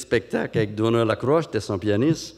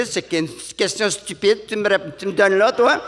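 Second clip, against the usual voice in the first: Montréal lady; 6 semitones higher than usual. Retold or imitated. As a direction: scoff at the silly question. Lady scoffs at question.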